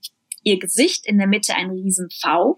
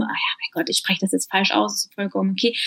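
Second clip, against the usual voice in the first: mock nonchalance. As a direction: imitate someone brushing off a mistake. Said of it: "dann so tun zum Beispiel, als wäre das ja gar nicht so schlimm".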